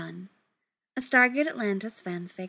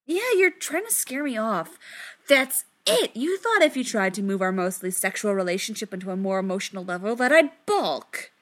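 exclaiming; 3 dB louder than usual. Acted. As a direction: declare it like a eureka. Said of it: "Rodney exclaimed".

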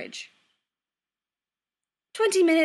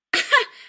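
loud, high burst of laughter; short high laugh; 14 semitones higher, 10 dB louder than usual. A narrator's reading. Mother popping into the kitchen, short high laugh. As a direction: laugh out brightly and briefly.

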